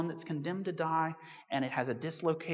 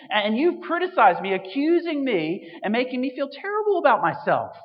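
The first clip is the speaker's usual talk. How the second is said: outraged shout; 4 semitones higher, 12 dB louder than usual. Acted. First patient yelling at the doctor, outraged. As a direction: roar it like an insulted patient. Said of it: "the first patient shouts".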